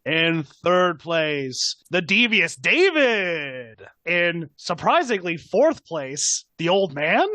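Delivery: slow, measured ceremony read; milk each placing like an awards host; award announcer. Acted. Mephisto announcing placings, slow ceremonial read.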